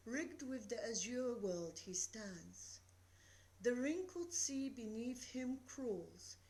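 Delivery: measured poetry reading, rhythm in each line; poem recital. Acted. Teacher reading The Eagle to the class, measured recital. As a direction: let the verse carry itself. Reads Tennyson poem aloud.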